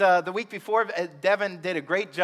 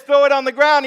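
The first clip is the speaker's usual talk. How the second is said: booming command; 6 semitones higher, 11 dB louder than usual. Acted. God commands in the story.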